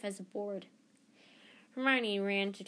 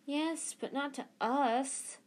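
higher and slow, fed-up protest; exasperated; 6 semitones higher, slower than usual. Acted. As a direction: lay on the exasperation. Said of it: "said Ron in exasperation".

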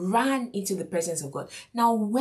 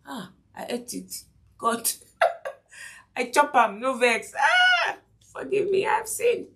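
mock pidgin confession; 4 semitones higher than usual.

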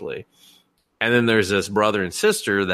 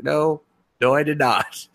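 higher-pitched, indignant retold denial; mock denial; 7 semitones higher than usual. Embarrassed girl answering her senpai, insistent denial. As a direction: deny it emphatically, imitating the girl.

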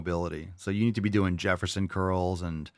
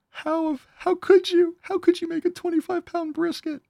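mock outraged mother-in-law; 6 dB louder than usual. Mocking the toxic mother-in-law, hammed-up high outrage. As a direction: drag out the fake horror, way up high. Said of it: "Said no one ever".

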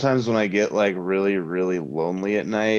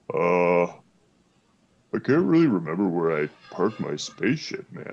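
lightly voiced spaced-out dude; spacey alien guide; 2 semitones lower than usual. Shown as a demonstration. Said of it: "so he sounds something like".

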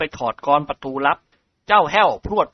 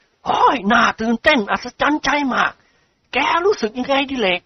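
slightly trembling voice; 9 semitones higher than usual. A narrator's reading. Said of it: "ด้วยเสียงสั่นเครือเล็กน้อย".

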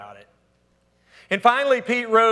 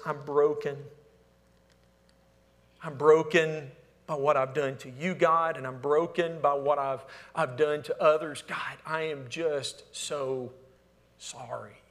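soft, slowing prayer fading to a whisper; quiet, heartfelt apology to God; broken prayer; 3 semitones lower, 4 dB quieter than usual. Acted. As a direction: let the words sink into a whispered sorry.

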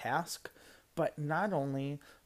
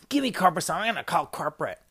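mock irate outburst, louder at the start; retold customer threat; 5 dB louder, much faster than usual. Customer threatening to call corporate, mildly irate. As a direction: imitate a huffy complaining customer.

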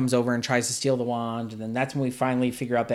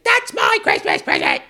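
low, louder mock huff; hammed-up childish annoyance; mock annoyed; 11 semitones lower, 6 dB louder than usual. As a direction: grumble like a spoiled kid robbed of a gift. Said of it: "she just gets so annoyed".

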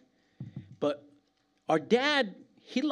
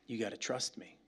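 hushed; 6 semitones lower, 10 dB quieter than usual. Acted. Lord's quote said softly.

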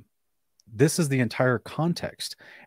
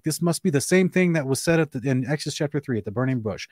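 slightly raised, smug mimic; light parody of an eager debater; mocking apologists; 3 semitones higher than usual. Mimicking apologists for Ken, lightly smug. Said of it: "they're like".

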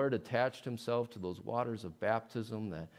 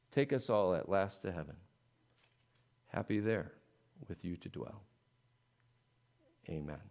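calm measured bedtime prayer; prayer recitation. Acted.

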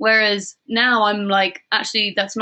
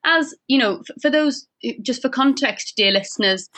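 put-on light Welsh accent, lilting; 4 semitones higher than usual. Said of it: "Could you please do it in a Welsh accent?".

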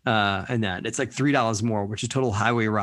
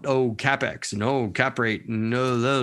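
mock jargon-dropper; much slower than usual. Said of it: "people drop out".

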